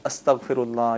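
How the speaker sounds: استغفر اللہ repeated as astaghfirullah with initial a; Arabic form. Shown as a demonstration. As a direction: model استغفر اللہ, short a first, then fi-rullah. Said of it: "اس کو اس طرح کہیں گے". (استغفر اللہ عربی میں، الف پر زبر کے ساتھ)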